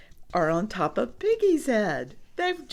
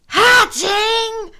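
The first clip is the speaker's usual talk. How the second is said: high, loud squeal; excited cry; 12 semitones higher, 10 dB louder than usual. Acted. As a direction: cry it out in delight. Reader reacts to hatching eggs.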